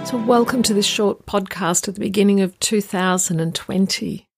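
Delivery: hoarse, croaky voice from the flu; rough, croaky throat while recovering. Real, not acted. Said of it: "apologies up front for a bit of a croaky voice".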